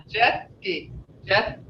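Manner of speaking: "Judge-ki" with the T held on the tongue; silent T. Shown as a demonstration. Teacher showing the T on your tongue, "Judge-ki" with T barely heard. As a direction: say "Judge-ki" with an unreleased T before the ki. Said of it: "you don't hear the T".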